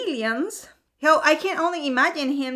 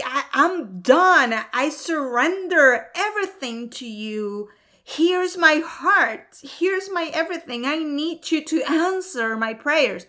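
heartfelt surrender; 3 semitones higher than usual. Retold or imitated. Opening your heart to God in prayer, heartfelt pleading surrender. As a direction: plead it out, stretching key words. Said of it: "you're opening your heart".

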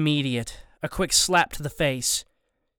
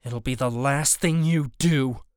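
quiet threat. A narrator's reading. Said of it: "I take another step and say".

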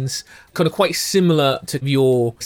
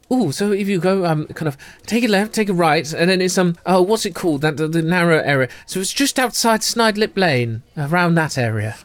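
lightly voiced, hushed gossiping ladies; a hint of two scheming sisters telling a tale; conspiratorial twins; 5 semitones higher than usual. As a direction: lean in and share a secret. GM voicing the twins.

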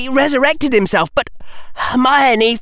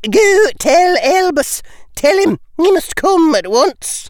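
high, urgent order; urgent command; 7 semitones higher, 3 dB louder than usual. Acted. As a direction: send the message urgently.

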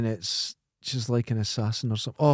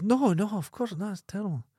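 lightly voiced little boy, higher and innocent; 8 semitones higher, 4 dB quieter than usual. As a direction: play the shocked innocent kid, pitched up. Joke, little boy answers van man.

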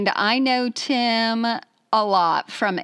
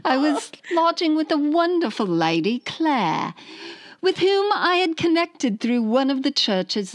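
put-on British letter-reading voice; British accent; 3 semitones higher than usual. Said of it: "here's my British accent".

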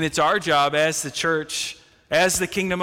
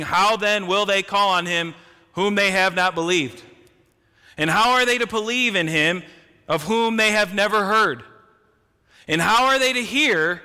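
rising fervour; 3 semitones higher, 3 dB louder than usual. Acted. Preacher pleading Paul's questions to the church, rising fervour. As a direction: voice climbs higher and louder on each question.

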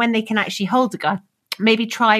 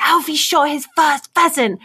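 mildly raised, higher excited call; excited announcement; 5 semitones higher than usual. Retold or imitated. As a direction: lightly imitate a shoot organiser's proud cry. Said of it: "the lady that was running the shoot was just like".

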